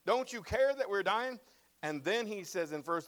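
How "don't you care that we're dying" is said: high, slow anguished cry; panicked plea. Acted. Disciples pleading with Jesus in the storm, high and desperate. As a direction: plead like you're about to drown.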